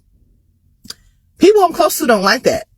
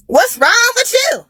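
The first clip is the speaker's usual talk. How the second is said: exasperated outburst; 11 semitones higher, slower than usual. Retold or imitated. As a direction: push it up into a fed-up yell. Annoyed at mama calling repeatedly.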